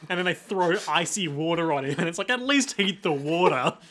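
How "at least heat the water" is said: words broken by laughter; laughing. Real, not acted. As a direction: laugh through the line. Laughing while quoting.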